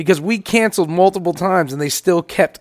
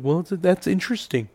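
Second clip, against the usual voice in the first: mock agent; 2 semitones lower, 9 dB quieter than usual. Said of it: "They're like".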